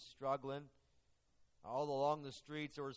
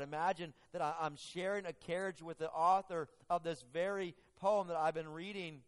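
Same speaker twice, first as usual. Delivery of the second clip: louder, higher amazed lady; mock surprise; 4 semitones higher, 6 dB louder than usual. Lady amazed to share a carriage, mild mock surprise. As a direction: marvel at the coincidence. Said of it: "surprised by it".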